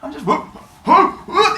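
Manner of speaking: put-on high, silly baby-bouncing voice; high-pitched playful excuse with whoops; feigned innocence. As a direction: act innocent while jiggling a baby. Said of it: "He's like".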